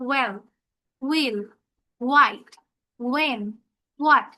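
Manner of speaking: "well, will, white, when, what" with WH as "ওয়া"; WH sound demo. Shown as a demonstration. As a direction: model each word separately, falling at the end. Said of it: "দুটো মিলে হবে ওয়া".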